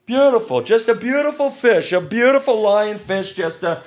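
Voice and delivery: a weak Trump gushing over a fish; Trump impression. Host hams up the lionfish card as Trump, a bad impression. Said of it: "I can't do a Trump impersonation".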